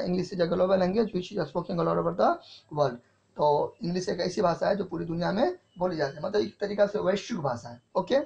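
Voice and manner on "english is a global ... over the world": slow dictation. Shown as a demonstration. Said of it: "तो second point आपका क्या हो गया?".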